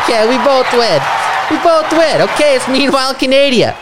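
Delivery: high, loud cheering; excited shout. Real, not acted. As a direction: shout it out in triumph. Cheering the tie result.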